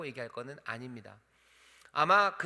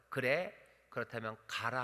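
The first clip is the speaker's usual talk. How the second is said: gentle permission; 2 semitones lower than usual. Shown as a demonstration. Preacher's gentle Elijah telling Elisha to go. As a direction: calmly give leave. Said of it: "라고 하지 않는 것 같아요".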